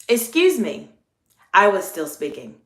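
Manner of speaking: courteous, unforced "Excuse me"; friendly check. Shown as a demonstration. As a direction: keep it friendly while checking someone politely. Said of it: "my tone of voice was still very friendly".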